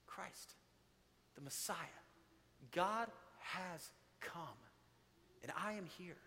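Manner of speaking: soft, slow, reverent voicing of Jesus; hushed solemn Jesus. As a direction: let the words drop to a hushed, slow hush.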